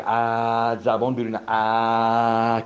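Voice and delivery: long open a with tongue out; sound the vowel a. Shown as a demonstration. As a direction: stretch the a slowly, tongue forward. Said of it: "یا ا رو بگو".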